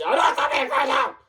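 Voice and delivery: high-pitched angry burst; heated, high retort; mad outburst. Acted. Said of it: "Someone's mad".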